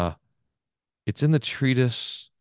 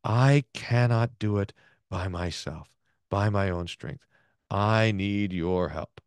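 slow earnest prayer; 2 semitones lower, slower than usual. Shown as a demonstration. Reading Jacob's prayer to the class, slow and humble. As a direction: pray it slowly, as a plea for help. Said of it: "this is the prayer".

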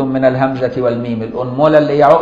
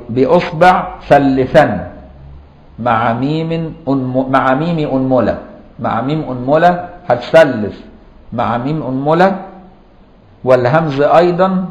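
slow, halting recitation that repeats each phrase. Shown as a demonstration. Teacher to students, reciting the verse slowly with repeats. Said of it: "الطالب يغنيها".

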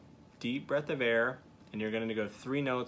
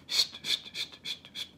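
tongue clicks. Shown as a demonstration. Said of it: "Our tongue is still anchored".

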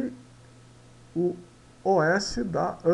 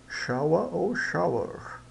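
British vs American; 3 dB quieter than usual. Shown as a demonstration. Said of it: "dependendo do inglês".

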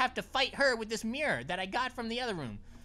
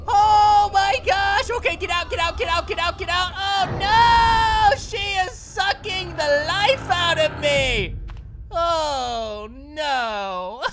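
panicked yelling, much louder and higher; being chased; 4 semitones higher, 10 dB louder, slower than usual. Real, not acted. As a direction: scream in panic while fleeing. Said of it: "That was a bit overdramatic".

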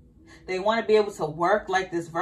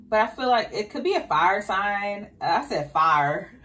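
country accent. Real, not acted. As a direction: let the country accent slip out on fire. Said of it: "My country accent be popping out".

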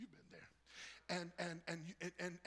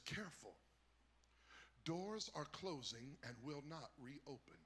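lightly voiced train announcer, slow and lower; measured, deliberate station announcement; train attendant announcement; 4 semitones lower, 4 dB quieter than usual. Train attendant warning passengers at the station, lightly imitated announcement. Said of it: "the woman's voice came over".

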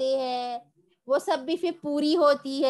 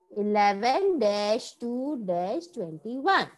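slow, careful date dictation; 3 semitones lower, much slower than usual. Shown as a demonstration. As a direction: say each part slowly for copying. Teacher dictating date slowly.

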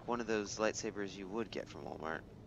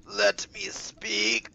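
loud, drawn-out impatient yell; frustrated shout; 8 dB louder, much slower than usual. Real, not acted. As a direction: shout it out, fed up with waiting. Impatient at game dialogue.

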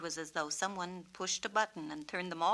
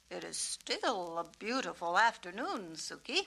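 cheerfully. Acted.

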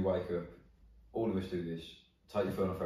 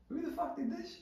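high, far-off mock outburst; a much higher put-on voice demanding an answer; imitating Andy; 6 dB quieter than usual. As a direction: squeal it like a furious sitcom character. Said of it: "he goes".

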